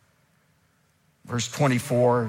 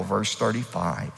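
ordinary talk, nothing marked

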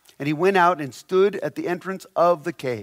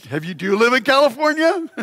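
higher, faster, laughing through the question; 4 semitones higher, faster than usual. Acted. Preacher playing whining Elijah, laughing at his own joke. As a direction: crack up mid complaint.

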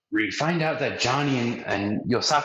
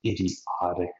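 know-it-all Nami; 2 semitones lower, slower than usual. Retold or imitated. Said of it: "is what I imagine she'd say".

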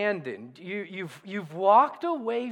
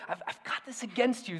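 softer, tender rebuke; passionate but loving; 8 dB quieter, faster than usual. Retold or imitated. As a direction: say it gently, with love behind it. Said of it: "hear his passion, but also hear his, his love".

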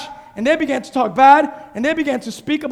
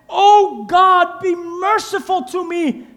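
pleading prayer; 4 semitones higher, much slower than usual. Acted. Tax collector's pleading prayer.

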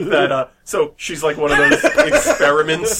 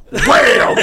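table bang; 9 semitones higher, 6 dB louder than usual. Retold or imitated. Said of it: "'cause it sounded like".

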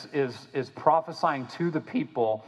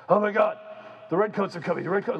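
hammed-up alarm at the invaders; panicked cry; 6 semitones higher, faster than usual. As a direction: cry out like a frightened crowd. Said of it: "are freaking out".

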